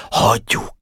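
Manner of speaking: hushed, mostly voiceless word; whispered reply. Acted. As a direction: answer under your breath. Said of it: "felelt suttogva Boka".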